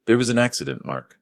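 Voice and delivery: faked panic attack. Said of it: "simulating a panic attack".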